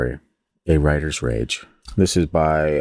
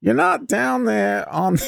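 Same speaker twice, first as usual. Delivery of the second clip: a much higher, slow, halting celebrity impression; Christopher Walken; slower than usual. Mom's line retold as a slow, much higher mock celebrity impression. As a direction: drag it out like a quirky film star. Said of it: "or Christopher Walken".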